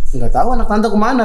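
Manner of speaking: playful quote through a laugh; half-laughing mock answer; jokingly answering while laughing; laughing joke reply. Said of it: "Terus gue bilang".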